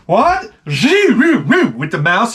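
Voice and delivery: high, very slow bewildered voice; mother baffled by the mouse; confused parent. Retold or imitated. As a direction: drag it out, totally lost. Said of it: "they're like".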